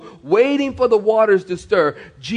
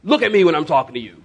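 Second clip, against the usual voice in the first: scolding parent; 3 semitones lower, faster than usual. Retold or imitated. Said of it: "like you say to your kids".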